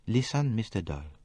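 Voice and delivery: a touch of earnest quiet. A narrator's reading. Poirot urging Simon to listen, earnestly. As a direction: speak with quiet seriousness. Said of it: "Poirot spoke very earnestly".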